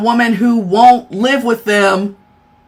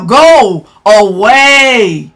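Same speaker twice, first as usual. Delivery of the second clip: drawn-out, lower go away; low slow dismissal; 4 semitones lower, 3 dB louder, much slower than usual. Real, not acted. Streamer dismissing a troll, low and slow. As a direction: wave them off with contempt.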